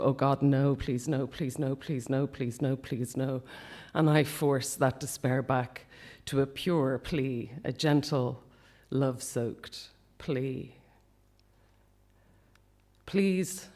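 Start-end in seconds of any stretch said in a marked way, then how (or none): 0.0-3.4 despairing plea. Retold or imitated. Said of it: "my please changes to". 13.1-13.7 crying plea. Retold or imitated. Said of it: "I cry into his bed".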